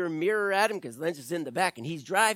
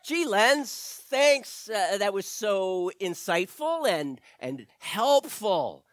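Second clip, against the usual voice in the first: sarcastic thanks; slower than usual. Acted. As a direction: thank him while rolling your eyes. The speaker mocks Lenz's childish answer.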